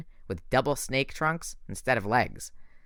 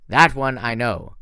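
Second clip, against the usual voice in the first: slow, louder growl; the general growling about the hunter; 7 dB louder, slower than usual. Acted. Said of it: "the general growled".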